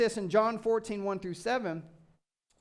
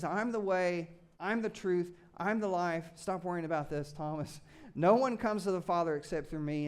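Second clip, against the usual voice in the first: gentle, lower, slowing reassurance; kind Jesus; 4 semitones lower than usual. Acted. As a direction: soothe a worried friend. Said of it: "He says".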